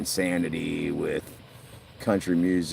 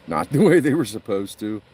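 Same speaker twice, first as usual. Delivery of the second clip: laughing; 4 semitones higher, 7 dB louder than usual. Real, not acted. Laughing at failed fishing attempts.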